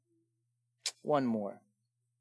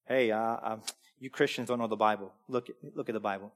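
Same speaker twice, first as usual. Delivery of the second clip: mock Jehovah's Witness; 7 semitones lower, 5 dB quieter than usual. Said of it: "what does Jehovah's Witness say".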